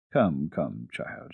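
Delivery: put-on gently soothing a crying child; friendly. A narrator's reading. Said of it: "she said in a friendly way".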